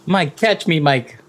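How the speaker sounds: dangling dog begs Mike to catch him, panicked; panicked call. Acted. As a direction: call out while slipping off the roof. Dog dangling from roof calls out.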